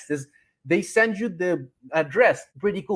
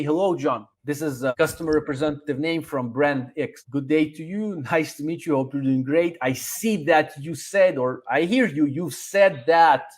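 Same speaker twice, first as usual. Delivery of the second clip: friendly rep greeting; 3 semitones lower than usual. Shown as a demonstration. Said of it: "You're gonna say".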